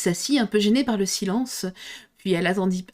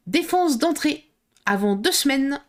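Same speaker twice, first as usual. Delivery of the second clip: creature voice; 6 semitones higher than usual. Acted. Creature at door refuses entry.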